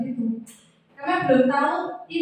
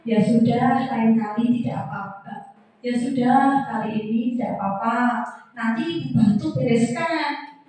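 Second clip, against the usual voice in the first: friendly tone; 3 semitones lower, slower than usual. Shown as a demonstration. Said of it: "Nada suaranya itu akrab".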